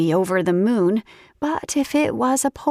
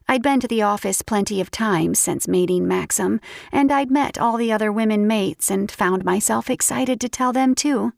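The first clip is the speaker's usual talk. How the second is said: usual speaking voice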